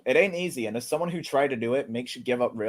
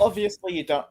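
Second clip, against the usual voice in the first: a hint of a snooty posh voice; 6 semitones higher, 3 dB louder than usual. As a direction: read it like a haughty aristocrat. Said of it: "quit with the posh voice".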